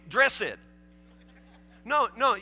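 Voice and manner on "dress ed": DRESSED said in two syllables, dress-ed; wrong two-syllable ending. Shown as a demonstration. Preacher voicing Warren's excuse about his hair, "dressed" said dress-ed. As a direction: sound the ED of "dressed" as a separate syllable. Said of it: "it would be dressed".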